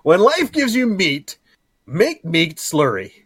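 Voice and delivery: high, loud, slow silly proclamation; mock grand proverb. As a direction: declare it like a grand saying. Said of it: "Can you make a new one for me?".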